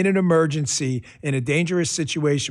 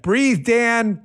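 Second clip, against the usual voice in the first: "Breathe" said higher and a bit louder; reading chat aloud; 7 semitones higher, 3 dB louder than usual. Retold or imitated. Host reading a viewer's chat line, amused and higher. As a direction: call out the chat's advice to calm down.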